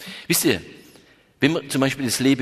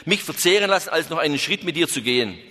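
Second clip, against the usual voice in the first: higher, fast indignant tirade; angry outburst; 3 semitones higher than usual. Acted. Hermit rejects the companion in a higher, rising tirade. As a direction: pour out his outrage, rising to a cry. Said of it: "schrie er".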